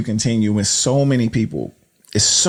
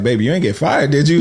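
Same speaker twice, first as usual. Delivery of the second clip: teasing husband voice; 6 semitones higher, 3 dB louder, faster than usual. Retold or imitated.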